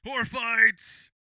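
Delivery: booming fight-show title call; mock announcer. Host opens a fake fight show, mock announcer. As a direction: call out the show name loudly.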